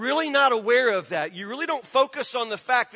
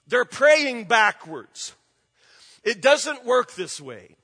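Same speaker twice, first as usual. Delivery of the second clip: forceful preaching; 3 dB louder, slower than usual. Real, not acted.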